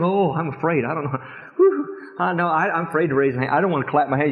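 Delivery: lightly voiced fearful newcomer; timid church member. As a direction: mimic the shy ones hanging back. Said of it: "these back here saying".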